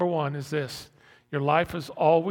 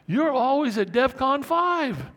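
high, loud alarmed cry; high alert; 10 semitones higher, 5 dB louder than usual. Acted. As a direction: sound the alarm at full pitch. Dramatizes living on constant high alert.

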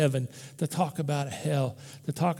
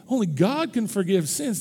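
ordinary talk

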